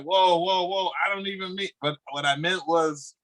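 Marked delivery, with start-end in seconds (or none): 0.0-1.7 raised, hurried denial; mock backpedal. Himself backpedaling at the critics, higher and flustered. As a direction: take it back in a higher, flustered voice. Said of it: "I'm like".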